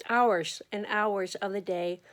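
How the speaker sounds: slow words stretched by a yawn. Real, not acted. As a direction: talk through a yawn. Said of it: "I know why I'm yawning now".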